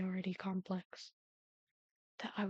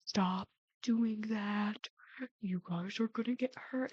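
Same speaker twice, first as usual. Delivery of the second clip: a hint of a stern father, drawn out; slow, measured parental warning, lightly acted; father's warning; slower than usual. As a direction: imitate dad's slow telling-off. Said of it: "My father went".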